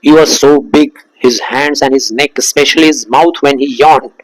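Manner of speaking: slow, deliberate reading of the text; story reading. A narrator's reading. Teacher reading the story aloud to students, slow. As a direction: read the story line slowly, savouring it.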